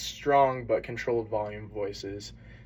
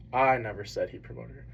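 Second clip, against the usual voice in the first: "I" leaned on, rest trailing evenly; stress on I. Shown as a demonstration. Student presenter showing the class how emphasis shifts meaning, stress on "I". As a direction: put the emphasis on the first word "I". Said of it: "you emphasize different words in that sentence".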